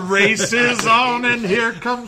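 mock race call. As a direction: call the race, stretching each phrase. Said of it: "Cameron and McElfresh just left".

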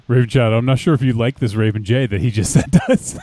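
amused, voice breaking into laughs; laughing. Real, not acted. Host cracking up over a picture someone sent, laughing. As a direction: talk through real laughter.

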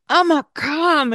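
put-on high, insistent child's wail; a toddler crying for Amma; whining toddler. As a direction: beg to be picked up like a small boy. Toddler demands she come.

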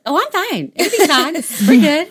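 high, breezy imitation of someone doing just fine; sing-song mock reassurance; mock cheerful reply. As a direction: chirp it like someone untroubled. Acts out mom's cheerful answer.

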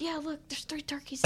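hushed whisper, trying not to scare them. Retold or imitated. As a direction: whisper so the birds don't hear. Whispering about turkeys in yard.

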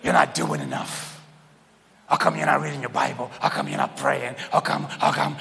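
lightly voiced scolding churchgoer; mock nagging voice. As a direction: imitate a nagging believer, half-joking. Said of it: "I don't know who I'm imitating".

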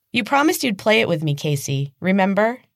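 put-on high, bright childish squeal of delight; excited little girl. Little girl showing her game to Casey, high and excited. Evelyn pleading.

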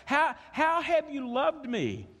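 high, slow, whiny grumble; cranky old spouse. Acted. Old married couple bickering, whining grumble. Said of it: "old man and old woman thing".

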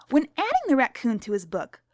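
lightly voiced stern schoolteacher; strict teacher. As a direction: read to the class as a stern teacher.

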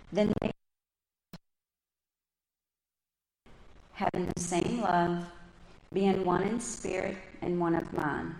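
measured, deliberate reading of the verse; slow scripture reading. Real, not acted. Reading Philippians to the congregation, slow and measured. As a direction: read it slowly, letting each phrase land. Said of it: "I'm gonna read slow".

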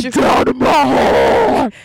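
screamo shout. Pretend.

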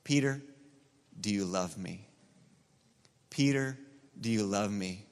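Jesus asking Peter, soft and low; tender question. Retold or imitated. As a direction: ask it quietly, like a friend who still loves him. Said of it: "He asked one question".

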